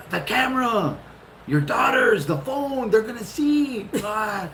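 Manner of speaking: high, urgent panicked shout; pleading in a mock panic, voice up high; panicked plea. Naked husband warns wife the camera sees him, panicked.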